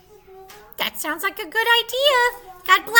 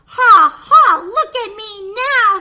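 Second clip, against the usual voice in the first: proud laugh; 12 dB louder than usual. Acted. Kitty shows off proudly.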